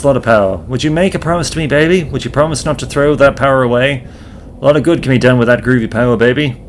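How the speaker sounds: fast, easy hippie patter; groovy hippie. Acted. Hippie admires the pocket watch, fast groovy patter. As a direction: talk like a laid-back sixties hipster.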